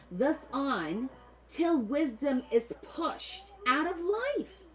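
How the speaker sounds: put-on high, drawn-out Italian-American macaroni accent. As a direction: stretch it out in a mock macaroni accent. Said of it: "I'm gonna do it like the macaronis".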